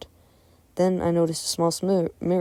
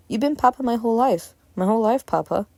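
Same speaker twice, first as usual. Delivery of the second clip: put-on higher-pitched little boy's plea; insistent child; 6 semitones higher than usual. A narrator's reading. Boy begging his Papa to remember him, insistent. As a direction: insist like a child who needs believing.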